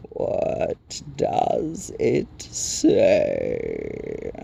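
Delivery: very low, very slow rock creature; crackling Rock Chewer. A narrator's reading. Stone giant announcing a newcomer, deep slow crackle. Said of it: "the Rock Chewer crackled".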